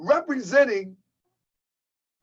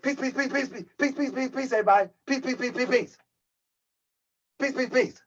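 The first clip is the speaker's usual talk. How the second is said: mocking a higher, squeaky peace greeting; Pharaoh Allah squeaky voice; 3 semitones higher, faster than usual. Host mocking rival's high voice on his channel, squeaky mock. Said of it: "That's why his voice so high pitched".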